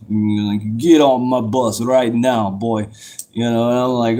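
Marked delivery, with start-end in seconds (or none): 0.8-2.9 slow, lightly voiced drill sergeant order; a hint of a big, commanding drill instructor; imitated drill instructor. Drill instructor orders a recruit onto the bus, lightly imitated command. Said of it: "he talks like this".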